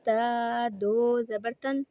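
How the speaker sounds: ता दो ज़बर तन said slowly, rising on दो; slow spelling drill. Shown as a demonstration. Teacher repeats the spelling for students. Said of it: "इस तरह पढ़ना है हमने".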